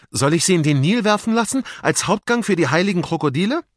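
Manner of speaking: high, loud soldier servant; eager henchman. Acted. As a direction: offer a cruel punishment eagerly. Soldat schlägt grausame Strafe vor. (eifriger Scherge, hoch und laut)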